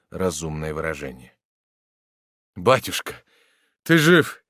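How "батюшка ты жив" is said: higher and louder, breaking out with joy; hopeful outburst. A narrator's reading. Son cries out to his reviving father in joy. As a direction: cry out, drunk on sudden hope. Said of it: "вырвалось у маршала".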